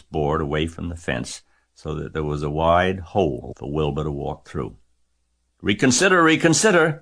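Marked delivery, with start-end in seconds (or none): 5.6-7.0 very high, loud plea; goose crying out. A narrator's reading. Goose begs Wilbur at the fence, crying out. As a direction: cry out a last plea, pitched well up. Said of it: "cried the goose".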